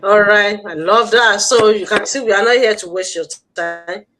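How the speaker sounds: booming, excited approval; loud enthusiastic. Real, not acted. Host cheers the guest's intro, loud and delighted.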